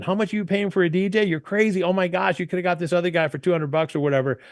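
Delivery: quick, high teasing scold; mock scolding friend. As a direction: lightly voice a friend mocking the price. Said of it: "they're having friends going".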